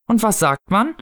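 high parental prompt, rising at the end; prompting mother. A narrator's reading. Mother prompting her child's manners, high coaxing voice. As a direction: coax a small child to say thanks. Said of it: "sprach in jenem Tonfall, den Erwachsene benutzen".

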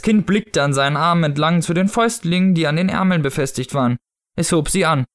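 measured audiobook narrator; story narration. A narrator's reading. Narrator describing the odd costume, story narration. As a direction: read the tale aloud, clearly articulated. Reads novel excerpt aloud.

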